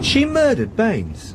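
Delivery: slow, drawn-out shocked question; stunned disbelief. Acted. Sergeant hearing the murderer's name, slow stunned disbelief. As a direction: let the news sink in word by word.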